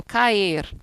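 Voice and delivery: "caer" in two beats, ca-ER; vowels in hiatus. Shown as a demonstration. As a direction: pull the a and e of "caer" apart. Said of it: "Aqui eu separo as vocales".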